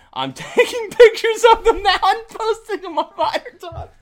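very high, loud, slow tattletale; mock busybody. Co-host mimicking a Vider Talk poster, mocking busybody. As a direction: squeal it as a caricatured snoop.

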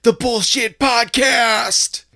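slow, drawn-out announcer intro; slow "previously on" voice; podcast recap announcer. Acted. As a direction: announce the recap with each word stretched.

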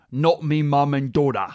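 clumsy put-on British accent; really bad British accent. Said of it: "really bad British accent".

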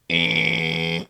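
low, flat imitated game-show buzzer; wrong-answer buzzer. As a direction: buzz them out like a quiz-show machine.

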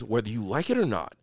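low, soft, menacing; lightly voiced Killmonger, low and dark. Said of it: "Killmonger, who says".

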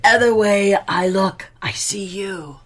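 creepy unvoiced whisper; ghostly whisper. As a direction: breathe it as a lurking ghost. Ghost creepily reveals itself.

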